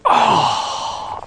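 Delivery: unvoiced, deflated sigh of an oh; bummed-out groan. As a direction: let it out like a defeated teen. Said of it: "he's all bummed out".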